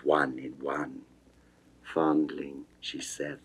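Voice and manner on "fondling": hushed endearment. Acted. Venus seduces Adonis, hushed.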